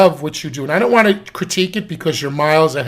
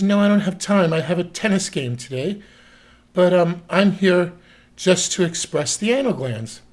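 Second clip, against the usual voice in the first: a hint of a higher, entitled client voice; breezy rich client, a little higher; lightly voiced client; 4 semitones higher than usual. Dog owner brushing off the vet, lightly higher voice.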